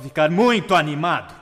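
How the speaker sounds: sudden loud burst of excitement; excited, loud. Shown as a demonstration. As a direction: startle them with booming animation. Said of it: "usando volume".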